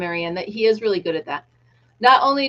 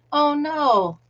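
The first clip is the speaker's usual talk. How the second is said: ordinary talk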